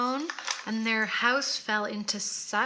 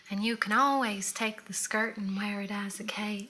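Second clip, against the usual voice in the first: lightly voiced famous movie quote; a hint of her put-on accent; Little Edie. Quoting Little Edie's famous skirt line, lightly imitated. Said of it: "the famous line is Little Edie".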